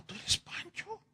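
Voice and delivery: can't believe it's him; surprised Pepe. Acted. Pepe sees how thin Pancho is, high and astonished.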